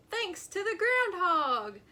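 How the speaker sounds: high, loud cheer. A narrator's reading. Chipmunk cheering for the groundhog. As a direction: cheer him on.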